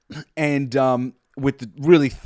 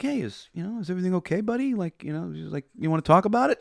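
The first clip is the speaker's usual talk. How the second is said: nice boss; 4 semitones higher, 3 dB quieter, faster than usual. Retold or imitated.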